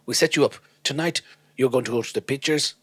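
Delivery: put-on French accent. Agent setting up a date, in a French accent. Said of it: "let's just say his agent's French as well".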